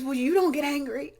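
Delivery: put-on a kid disbelieving her mom; quoting daughter. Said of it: "She says".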